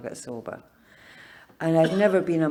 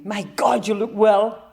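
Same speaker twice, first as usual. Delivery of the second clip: higher, louder cultured Jamaican exclamation; cultured Jamaican accent; 6 semitones higher, 8 dB louder than usual. Retold or imitated. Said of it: "his cultured Jamaican accent".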